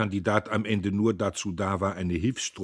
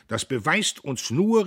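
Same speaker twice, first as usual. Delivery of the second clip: higher, louder, slow orator's call; rally the hall; rousing cry; 8 semitones higher, 7 dB louder than usual. A narrator's reading. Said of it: "rief Diederich".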